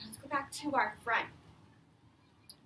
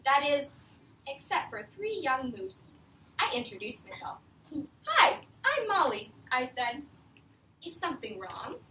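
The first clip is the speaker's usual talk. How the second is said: put-on reading to children. Teacher reading The Useful Moose to her class, lively read-aloud. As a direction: read it out to a class of young kids. Reads picture book to class.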